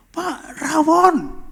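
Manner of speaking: high-pitched, loud calling out; acted yell, leaping up in pitch; excited shout. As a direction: shout it like a startled household helper.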